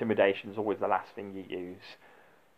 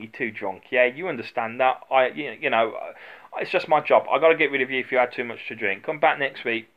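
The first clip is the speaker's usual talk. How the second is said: put-on calming a drunk; 3 semitones higher, 7 dB louder than usual. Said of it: "you de-escalate it".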